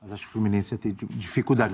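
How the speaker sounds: low, hushed confiding tone; speaking softly. Real, not acted. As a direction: lean in and say it softly. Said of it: "Vou falar baixinho aqui".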